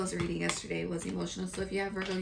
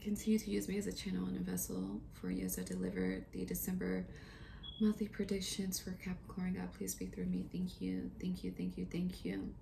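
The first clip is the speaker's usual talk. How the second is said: soft, hushed prayer to God; quiet prayer; 8 dB quieter than usual. Real, not acted. Reader pauses the reading to pray to God, softly. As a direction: murmur a humble prayer of thanks. Prays aloud mid-reading.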